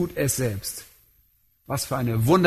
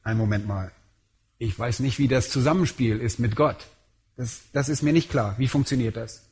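imitated puzzled listener; 5 semitones lower than usual. Preacher voices a listener unsure how God works, puzzled and lower. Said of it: "Jetzt fragt ihr".

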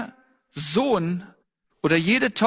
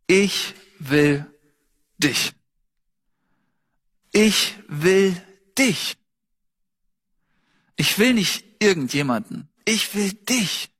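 loving God's voice. Acted. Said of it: "hörst du im Ton seiner Stimme Liebe".

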